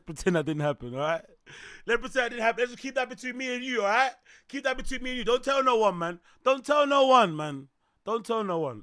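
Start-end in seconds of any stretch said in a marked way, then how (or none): 1.9-8.8 high. Real, not acted. Joking secrecy plea.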